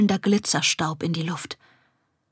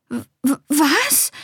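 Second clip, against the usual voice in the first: stuttering, higher-pitched bafflement; stunned stammer; 6 semitones higher than usual. A narrator's reading. Confused girl to talking pup, stunned stammer. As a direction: stumble on the first sound, then blurt it high. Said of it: "stammelte Esmina".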